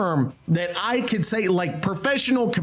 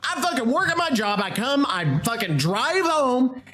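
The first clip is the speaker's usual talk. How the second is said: animated rant; 4 semitones higher than usual. Real, not acted. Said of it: "I'm getting a little animated".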